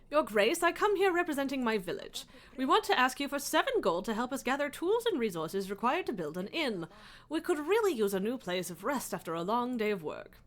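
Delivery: lightly voiced humble villager; a touch of a pleading peasant. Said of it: "You love my peasant voice?".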